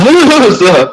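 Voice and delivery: high wordless mock-voice hoot; mock impression in wordless noises; imitating Daniel. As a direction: hoot it high, mocking a friend. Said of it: "I'll talk like Daniel".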